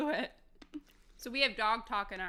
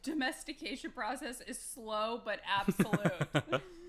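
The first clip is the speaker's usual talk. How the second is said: imitating his dog voice; slower than usual. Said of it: "I could hear him doing".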